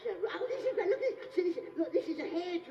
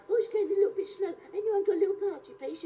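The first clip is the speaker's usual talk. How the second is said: party host, bored; 4 semitones higher, 5 dB louder than usual. Retold or imitated. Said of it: "the host will say".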